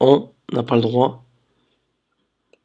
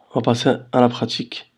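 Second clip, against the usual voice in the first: whispered; 5 dB quieter than usual. Real, not acted. Aside while adjusting screen.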